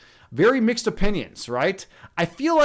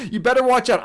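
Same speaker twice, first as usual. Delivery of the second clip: laughing mock threat, louder; laughing warning; 4 semitones higher, 4 dB louder than usual. Real, not acted. Streamer warning a viewer to watch out, laughing. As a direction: tease them through a laugh.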